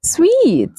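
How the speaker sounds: "Sweet" with w glide and long ee; high, falling model "Sweet"; correct pronunciation. Shown as a demonstration. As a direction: say suite exactly like "Sweet". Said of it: "It has the same pronunciation as".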